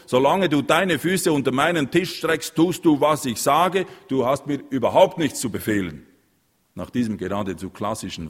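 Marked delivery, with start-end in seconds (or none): 0.1-6.1 furious shout. A narrator's reading. Father shouting down his son, enraged. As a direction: keep roaring, he has lost it.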